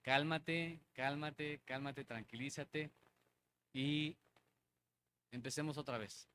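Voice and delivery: quiet inner voice telling himself to calm down; calming self-talk. Retold or imitated. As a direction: talk yourself down gently. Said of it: "en el sentido de".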